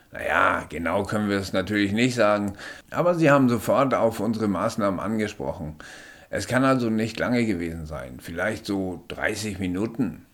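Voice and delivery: höher und lauter, bestimmter Sanitäter. Acted. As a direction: fordert den Patienten energisch auf liegen zu bleiben. Sanitäter beruhigt den Patienten. (Sanitäter beugt sich über den Patienten, höher und lauter)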